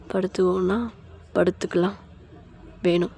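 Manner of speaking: quiet, loving request; intimate coaxing. Acted. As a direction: coax her gently. Husband coaxes wife intimately.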